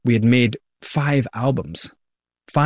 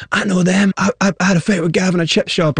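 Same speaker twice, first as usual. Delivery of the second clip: excited forum gossip; 6 semitones higher than usual. Retold or imitated. Forum posters quoted, excited gossip.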